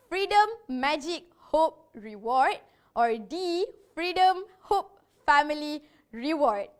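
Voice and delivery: short of breath while listing; running out of air mid-list. Real, not acted. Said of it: "I'm out of breath".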